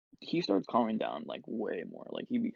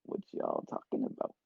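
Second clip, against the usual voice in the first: imitating tripping self; 3 dB quieter than usual. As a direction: re-enact a dopey, deep-voiced question. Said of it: "that's exactly how I sounded".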